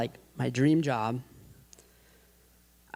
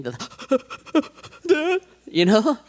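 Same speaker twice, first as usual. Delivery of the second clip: imitated crying hiccup; 12 semitones higher, 3 dB louder, much slower than usual. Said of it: "I did the hiccup thing".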